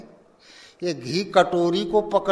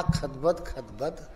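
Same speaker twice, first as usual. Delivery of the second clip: mocking the pot's bubbling; 5 semitones lower, 10 dB quieter than usual. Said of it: "ये का बोल रहा".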